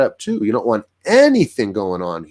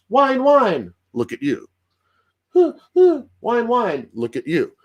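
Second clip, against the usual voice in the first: high whiny imitation of a begging dog; dog whining for a treat; 10 semitones higher, slower than usual. Dog begging owner for a biscuit, high imitated whining. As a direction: whimper like a pup asking for a biscuit. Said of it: "they'll typically do this".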